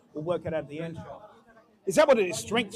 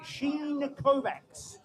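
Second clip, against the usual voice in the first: fake American accent; 3 semitones higher, 5 dB quieter, much slower than usual. Shown as a demonstration. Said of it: "fake American accents".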